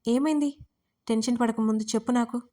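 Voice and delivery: urgent, pressing to know what happened; anxious question. Acted. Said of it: "అని ఆదుర్దాగా అడిగింది సోనాలి". (ఆదుర్దాగా అడగడం)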